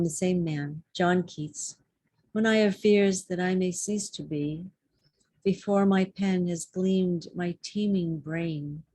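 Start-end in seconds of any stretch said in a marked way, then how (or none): 2.3-8.8 measured, pausing verse recital; deliberate poetry reading with weighted phrases; poem reading. Acted. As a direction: read verse aloud, resting at each line end. Reads a sonnet aloud.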